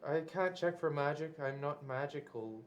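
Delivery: toned down. Pretend. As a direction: say it again at close-range volume, subdued. Repeats it without yelling for small room.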